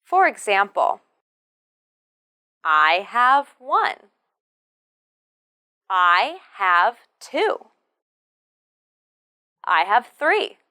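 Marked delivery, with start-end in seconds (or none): 2.6-10.6 "one", "two", "three" stressed with a rise; stress on the number. Shown as a demonstration. Teacher asks which words were emphasised, number stressed. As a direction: lift each number at the end of "I have". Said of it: "the stress should be on the number".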